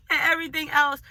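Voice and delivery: high, loud, laughing words. Real, not acted. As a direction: talk through a laugh. Laughing while telling.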